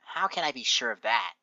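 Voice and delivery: mildly suspicious character voice; skeptical. Acted. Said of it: "She looks at you skeptically".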